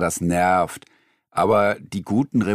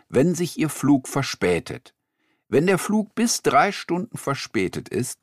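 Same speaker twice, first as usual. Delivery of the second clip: radio presenter; 3 semitones higher than usual. Acted.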